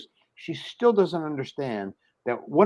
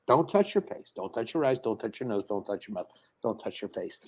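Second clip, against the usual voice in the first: fading warning; 4 semitones lower, 6 dB quieter than usual. Retold or imitated. Repeated covid warning, fading away.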